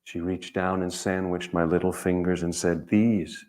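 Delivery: measured, heartfelt reading of his own poem; gentle storyteller's poem reading. Acted. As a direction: read it like a remembered scene, unhurried. Reads his poem aloud.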